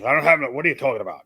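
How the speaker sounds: quick imitation of a baffled man; Nixon. Stranger answering a prank call, quick and baffled. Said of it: "he's talking like Nixon".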